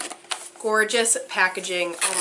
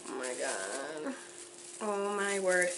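low, soft, slow murmur; real awestruck undertone; hushed awe; 4 semitones lower, 12 dB quieter than usual. Real, not acted. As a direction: drop low and quiet, stunned. Awed by more items.

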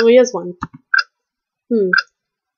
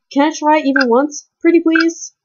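higher wheedling plea; pleading; 4 semitones higher than usual. Acted. A character begging to break the clock, high pleading. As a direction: beg sweetly.

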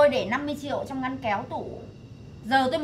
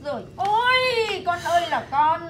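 slow, tearful wail; crying lament; 3 semitones higher, slower than usual. Acted. Mother crying over her son's trouble, tearful. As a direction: break down over the son.

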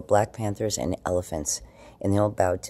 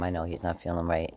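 usual speaking voice

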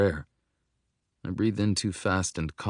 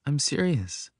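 put-on higher-pitched girl's voice; insistent child; 7 semitones higher than usual. A narrator's reading. Young girl told she is talking nonsense, insistent.

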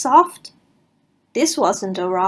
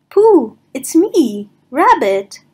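Rabbit voice; 3 semitones higher, 6 dB louder, slower than usual. Acted. Rabbit character voice.

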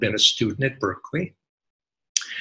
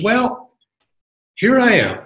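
elated self-talk; 10 semitones higher, 6 dB louder than usual. Retold or imitated. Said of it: "I says".

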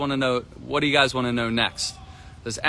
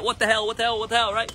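higher-pitched mock exasperated what the hell; mock exasperation; 8 semitones higher, faster than usual. Coach voicing a frustrated beginner at the net, mock exasperated. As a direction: act out the player's fed-up groan, half-joking.

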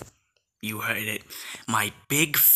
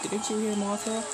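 much higher, squealing with excitement; excited squeal; 12 semitones higher than usual. Real, not acted. Reacting to hearing Mothra, high excited squeals.

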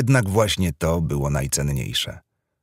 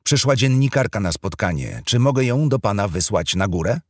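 high, loud receptionist over the intercom; 5 semitones higher, 3 dB louder than usual. Acted. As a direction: announce through the door speaker. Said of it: "głos w domofonie".

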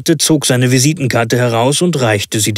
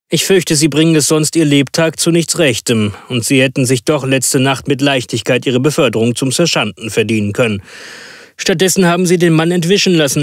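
brisk higher-pitched scolding; Holmes reproving; 3 semitones higher, faster than usual. Acted. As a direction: lecture him briskly, then leave.

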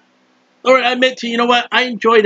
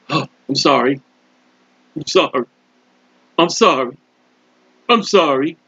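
penitent prayer; 6 semitones lower than usual. Acted. Sinner confessing to God, hushed lower penitent plea. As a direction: plead sorry, low and hushed. Preacher acts a repentant prayer.

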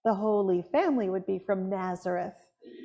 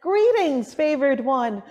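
angel greeting; 2 semitones higher, 5 dB louder, slower than usual. Retold or imitated. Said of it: "Gabriel said".

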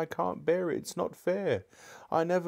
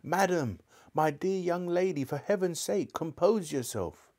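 high, frightened pleading without much volume; trembling scream; 8 semitones higher than usual. A narrator's reading. Uncle begging the raging witch for calm, trembling scream. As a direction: beg her in a high, panicky voice. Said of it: "the voice of Uncle Andrew in a sort of trembling scream".

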